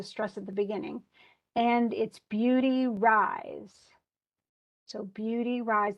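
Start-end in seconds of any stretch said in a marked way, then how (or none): 1.6-5.9 "beauty rise" said slowly, stressing each beat; scanned with beats. Shown as a demonstration. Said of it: "that's three beats total".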